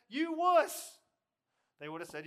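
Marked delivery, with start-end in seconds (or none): 0.1-1.0 high, very loud taunt; jeering shout. Acted. Onlookers mocking the one who backs out, jeering shout. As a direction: yell it as a mocking insult.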